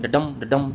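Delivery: "डडम" twice, each stressed on "डम"; light "ड", firm "डम" in each "डडम"; two iambic feet. Shown as a demonstration. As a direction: beat out two "डडम" pairs, weak-STRONG. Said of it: "यानी दो जोड़े हैं".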